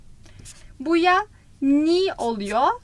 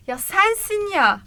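sensin ya, leaning on sensin; stress on sensin; 5 semitones higher, slower than usual. Shown as a demonstration. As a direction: hit sensin with emphasis. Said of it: "Böyle vurgu aslında". (sensin vurgulu)

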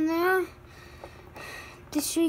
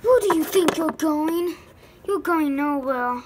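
louder menacing demand; angry villain shout; 3 dB louder than usual. Acted. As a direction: bark it at the escaper.

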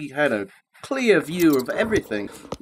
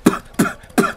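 sputtering; 12 semitones higher than usual. A narrator's reading. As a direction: sputter it out over pie. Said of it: "he sputtered".

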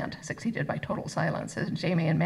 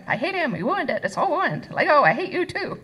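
put-on high, wailing child tantrum; bellowing tantrum; 10 semitones higher, 5 dB louder than usual. A narrator's reading. Girl struggling in father's grip, furious wail. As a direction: rage like a toddler, building louder. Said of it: "Mandy bellowed, struggling madly".

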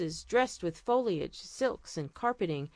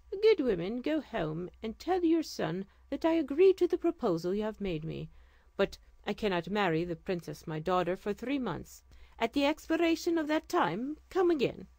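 regal sultan; 3 semitones higher than usual. Acted. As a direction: speak as a gracious sultan. Sultan answers the old woman.

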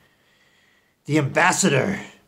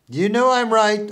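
higher, louder repeat; louder insistence; 6 semitones higher, 4 dB louder than usual. Acted. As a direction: push it harder the second time.

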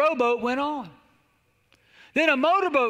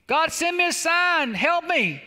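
raised, stretched cry for help; pleading prayer; 6 semitones higher, 3 dB louder, slower than usual. Acted. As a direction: mock-desperate plea to heaven. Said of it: "He's praying for God to help him".

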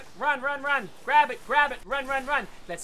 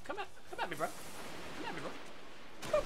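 whispering; 15 dB quieter than usual. Acted. Taunt repeated whispered.

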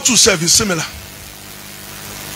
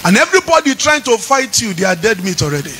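singing preacher's chant over music; fervent preaching; 3 semitones higher than usual. Acted. Pastor stirs the congregation with a sung preaching chant. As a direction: preach it out, lifting each phrase.

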